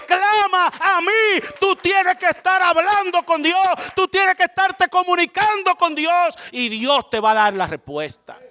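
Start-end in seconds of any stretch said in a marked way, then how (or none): 0.1-6.4 high, slow, soaring proclamation; fervent high preaching; proclaiming God's call. Acted. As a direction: lift the voice high as God calling.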